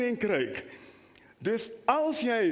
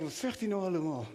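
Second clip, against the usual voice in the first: put-on puzzled baby thought; 3 semitones lower, 5 dB quieter, faster than usual. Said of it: "dat hij denkt".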